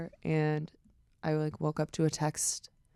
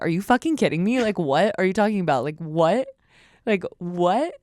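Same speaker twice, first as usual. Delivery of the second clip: louder, stunned disbelief; disbelieving shout; 2 semitones higher, 6 dB louder than usual. Retold or imitated. Answering Charlie about the song, loud and stunned. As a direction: shout it, totally floored.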